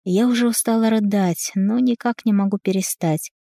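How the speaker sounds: ordinary delivery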